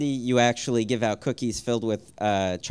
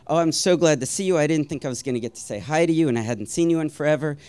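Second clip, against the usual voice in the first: gushing greeting; 3 semitones higher, faster than usual. Retold or imitated. Older family friend hugging him at the party, lightly gushing. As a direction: gush lightly, letting the words run on.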